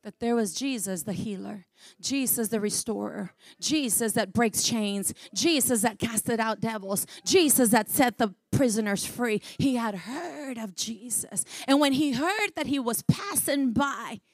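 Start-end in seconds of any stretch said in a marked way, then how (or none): 0.0-11.4 hushed preaching. Real, not acted. Preacher builds a list of Jesus' deeds.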